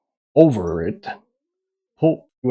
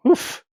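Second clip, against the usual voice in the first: breathless laugh. Real, not acted. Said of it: "Losing breath".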